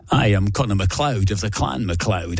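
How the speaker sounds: lightly put-on Scottish accent, Connery style; a modest Scottish accent in the Highlander quote; Sean Connery Scottish accent. DJ apologetically doing the film quote in a mild Scottish accent. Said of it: "try it with a north of the border accent".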